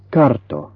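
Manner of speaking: carto said slowly, R sounded before the t; R before consonant. Shown as a demonstration. Teacher showing learners the R before consonants, slowly. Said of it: "not to omit it before consonants".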